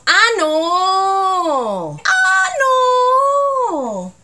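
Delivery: loud, high, indignant "Ah, no"; outraged Chilean "Ah, no!". Shown as a demonstration. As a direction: protest loudly, pitch jumping up. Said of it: "la combinación del "ah" y del "no".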